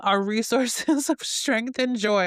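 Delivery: reading through a giggle at herself; can't keep a straight face reading the line; laughing while reading. Real, not acted. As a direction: laughs mid-phrase, slowed. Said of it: "I'm laughing at myself".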